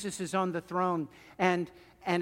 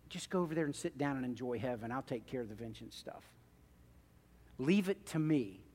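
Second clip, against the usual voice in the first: calm reassuring God; 2 semitones lower than usual. Acted. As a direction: gently tell them to rest. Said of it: "and said, basically".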